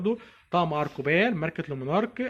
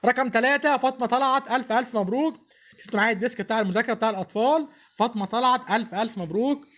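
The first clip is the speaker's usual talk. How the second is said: booming prize announcer; 5 semitones higher than usual. Acted. Announcing second raffle winner.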